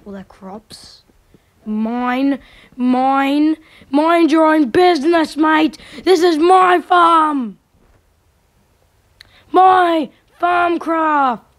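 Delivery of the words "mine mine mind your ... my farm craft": loud, slow, possessive yelling; playful shout. Acted. Gamer yelling at mobs to keep off his farm, loud.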